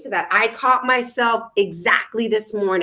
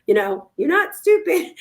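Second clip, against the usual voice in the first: put-on higher, bright kid voice; a child's higher voice; 10 semitones higher, 4 dB louder than usual. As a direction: imitate your little one correcting mom. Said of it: "Even Lex is like".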